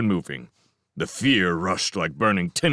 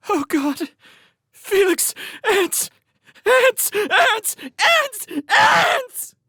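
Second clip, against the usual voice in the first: very high, loud screaming; terrified scream; 7 dB louder, much slower than usual. Acted. Showen screams in terror at the ants. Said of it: "blood-curdling cry of a grown woman, gripped by ultimate terror".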